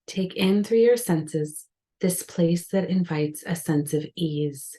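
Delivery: measured meditation guidance with long pauses; unhurried yoga nidra guidance, leaving space between phrases; guided meditation. Real, not acted. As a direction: guide the listener gently into rest, phrase by phrase. Leads a guided relaxation.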